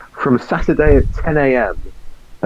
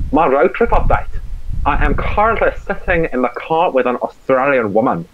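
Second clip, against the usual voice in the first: mock South African accent, pitched up; 2 semitones higher than usual. Reading his road trip update to the podcast, put-on South African accent. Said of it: "That's South African".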